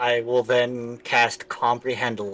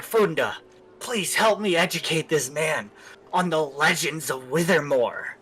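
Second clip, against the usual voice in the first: conspiratorial half-whisper; 3 semitones higher than usual. Acted. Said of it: "a conspiratorial voice, pretending to whisper but not trying very hard".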